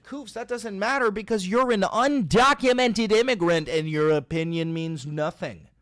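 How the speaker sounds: loud hammed-up taunt; mock taunting shout. Streamer taunting Koofs as an immigrant, loud mock shout. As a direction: bark it at him like a parody bigot.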